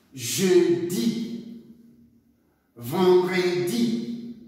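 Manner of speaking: each day said slowly with rising tune; slow model pronunciation. Shown as a demonstration. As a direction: draw out each day for repetition. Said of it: "prononcez lundi". (les jours dits lentement, un par un)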